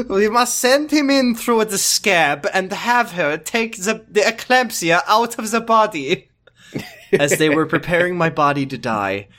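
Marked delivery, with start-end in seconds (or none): 0.1-6.3 higher put-on voice, with laughter; high mock-earnest doctor; hammy doctor voice. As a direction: play the doctor's absurd plan straight-faced. Doctor James voiced comically.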